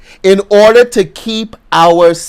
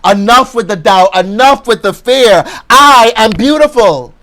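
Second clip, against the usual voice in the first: rising from firm to loud, higher declarations; self-pep talk building; 4 semitones higher, 4 dB louder than usual. Retold or imitated. Preacher voicing a wake-up call to oneself, building to loud. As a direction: shake yourself awake, then proclaim. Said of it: "knock our head sometimes like".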